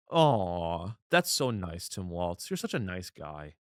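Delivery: low, soft mock-tender aside; mock touched. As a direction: coo it quietly, feigning being moved. Mock sympathy for governor's statement.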